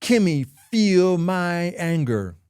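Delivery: mock toddler tantrum; mock pouting baby. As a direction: act out a sulking little baby, drawing out the words. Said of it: "acting like a little baby, like".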